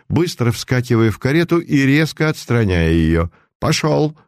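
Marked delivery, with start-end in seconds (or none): 3.6-4.2 shouting to the coachman. A narrator's reading. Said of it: "крикнул он кучеру".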